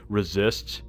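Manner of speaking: bad French accent. Gamer explaining his slip, imitating a French accent. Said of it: "with a very bad French accent".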